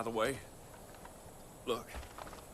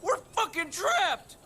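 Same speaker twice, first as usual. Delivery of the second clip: panicked; 6 semitones higher, slower than usual. Acted. Trapped, panicking to stranger.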